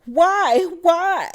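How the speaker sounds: high, stammering mock whine of repeated questions; Kyle's pestering whine. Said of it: "Here go Kyle".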